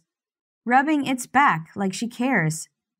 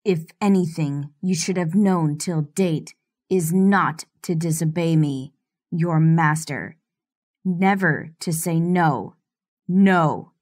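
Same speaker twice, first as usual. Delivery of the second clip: lightly lowered menacing master; low threat, slightly deeper; 3 semitones lower than usual. Acted. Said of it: "Stefan's voice goes deeper".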